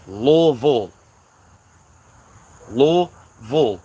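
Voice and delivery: Louisville slowly as LOO-VULL; local pronunciation. Shown as a demonstration. Correcting outsiders, Louisville drawn out as LOO-VULL. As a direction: stretch Louisville into two syllables, LOO-VULL. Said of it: "If you don't say it like that".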